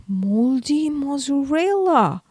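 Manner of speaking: slow, dismayed cry; dismayed exclamation. Acted. Mouse realising he missed Missus Smith, dismayed. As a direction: let the dismay out slowly.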